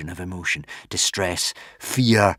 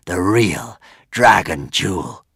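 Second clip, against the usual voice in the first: hissed sigh; 4 dB louder, slower than usual. Acted. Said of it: "he hissed with a terrible sigh".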